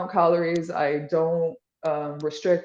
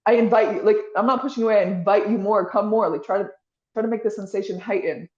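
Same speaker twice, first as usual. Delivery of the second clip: inviting self-talk; 3 semitones higher, 3 dB louder than usual. Shown as a demonstration. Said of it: "you're like".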